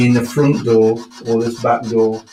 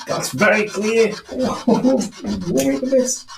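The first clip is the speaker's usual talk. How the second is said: laughing in disbelief; 9 semitones higher, 3 dB quieter, much slower than usual. Real, not acted. Ghost reply startles, he laughs.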